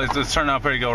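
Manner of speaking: hammed-up British accent; same words in a fake British voice; clumsy mock British; bad British accent. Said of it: "That's a horrible accent".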